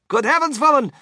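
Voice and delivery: loud, flustered protest; indignant husband. A narrator's reading. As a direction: snap back loudly at a wife. Husband retorts to screaming wife.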